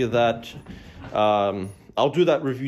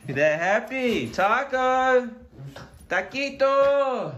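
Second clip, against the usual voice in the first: high, slow cooing at pets; pet talk voice; 9 semitones higher, much slower than usual. Real, not acted. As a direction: sing the cats' names sweetly. Names the cats fondly.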